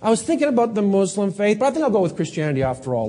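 offhand, breezy shopper; casual chooser. Retold or imitated. Someone casually choosing a faith, breezy and offhand. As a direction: toss it off like picking from a shelf.

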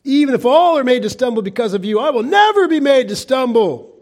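cocky Peter boasting he will never stumble; arrogant boast. Acted. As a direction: brag it like a proud Peter. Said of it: "That's arrogant and foolish and strong".

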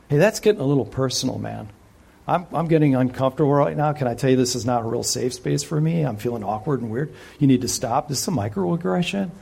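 fast, hurried mock awkwardness; mock-uncomfortable modern listener. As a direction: play the squirming skeptic, rushing.

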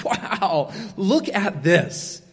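quick, breathless mock excitement after a show; awestruck gushing. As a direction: gush like a kid leaving a great movie. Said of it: "would be going".

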